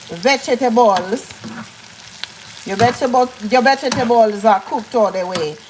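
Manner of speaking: put-on joking Caribbean island accent. Telling viewers to cook their vegetables, joking island accent. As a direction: lay on a mock island accent. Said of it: "please don't come for me in my accent".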